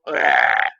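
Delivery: mock throw-up noise; imitated retching. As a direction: fake a drunk's retch between yells. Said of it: "in between throw ups".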